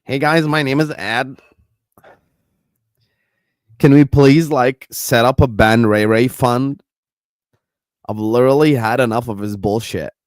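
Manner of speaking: a light, loud take of Ed asking for a fund; Ed's voice. Retold or imitated. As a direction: read Ed's message out as Ed. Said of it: "That's Ed talking".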